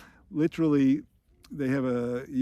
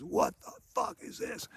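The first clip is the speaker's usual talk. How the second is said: mock outraged shriek; 6 dB quieter than usual. Sergeant finds the jelly donut, mock outraged shriek. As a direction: squeal it as a half-volume imitation of outrage.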